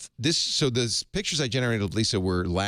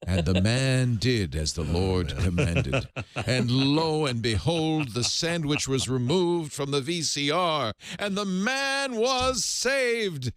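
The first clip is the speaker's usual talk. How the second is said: mock scripture narration; 2 semitones higher, slower than usual. Host narrating the verse to cohosts, mock solemn. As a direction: intone like a Bible reader. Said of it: "so I'll do the accent of God".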